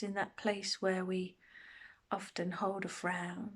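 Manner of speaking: unhurried meditation guide, long pauses between phrases; guided meditation. Acted. Meditation teacher settling listeners into a body scan, calm guided delivery. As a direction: guide them gently through a body scan, pausing often.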